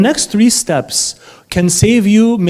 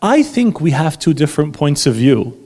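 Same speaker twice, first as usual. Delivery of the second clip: calm. Shown as a demonstration. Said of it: "just calmly say".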